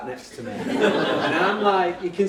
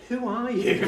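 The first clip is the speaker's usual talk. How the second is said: mild astonishment; 7 semitones higher than usual. Retold or imitated. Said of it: "I lost my rag. I didn't. I just went".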